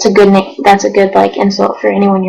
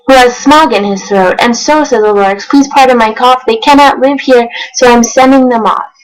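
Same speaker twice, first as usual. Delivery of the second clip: rhythmic read-aloud of rhyming verse; storybook narration; 3 semitones higher than usual. A narrator's reading. Reading Dr. Seuss to viewers, lively storybook narration. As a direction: read it like a bedtime picture book.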